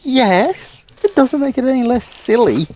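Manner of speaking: ordinary talk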